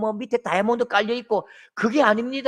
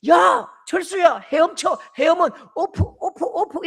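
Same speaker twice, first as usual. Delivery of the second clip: high, loud calls to swim; yelled coaching; 8 semitones higher, 5 dB louder than usual. Retold or imitated. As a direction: shout instructions at the boy. Bystander yells swim instructions.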